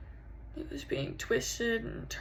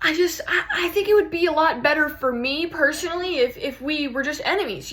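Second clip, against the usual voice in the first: loud, stumbling bitterness; raised, upset voice; hurt outburst; 3 semitones higher, 4 dB louder than usual. Acted. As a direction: burst out with wounded frustration. Bitter plea to departing lover.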